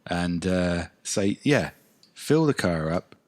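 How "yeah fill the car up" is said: unconvincing Cockney at normal pitch; bad Cockney accent. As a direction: have a clumsy go at Cockney. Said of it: "That's the worst fucking Cockney accent".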